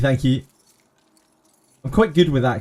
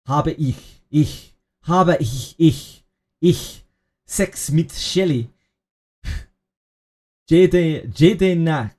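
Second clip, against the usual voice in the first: German accent attempt; 3 semitones higher, much slower than usual. Shown as a demonstration. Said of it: "hard to do the German throat thing".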